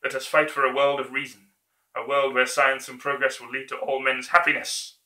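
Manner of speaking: building to a rousing shout; dictator speech. Acted. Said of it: "that version of his speech".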